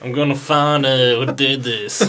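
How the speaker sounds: slow, serious lawman voice; mock cop voice. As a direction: play the grim detective. Imitating Constable Rick investigating.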